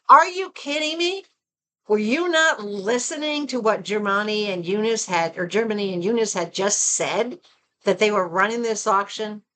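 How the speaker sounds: retelling her fury at the auction snipers; livid outburst. Retold or imitated. Imitating her outraged reply to the other bidders, half-hearted. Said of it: "And I was so livid".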